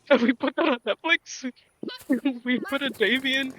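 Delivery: incredulous question broken by laughter; laughing disbelief. Acted. Fan mocking the Netflix reboot, laughing in disbelief.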